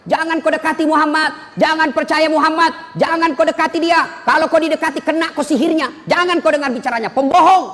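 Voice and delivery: retold shouting. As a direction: shout the blind man's warnings across the market. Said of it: "Apa dia teriak-teriak?". (teriakan keras menirukan tunanetra)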